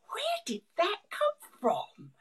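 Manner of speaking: bewildered inner voice. Retold or imitated. Voicing people's confused inner thoughts.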